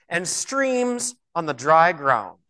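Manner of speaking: "streams" held long; slow reading that dwells on "streams"; emphatic inflection. Shown as a demonstration. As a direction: stretch out "streams", then ease down. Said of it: "what I emphasize".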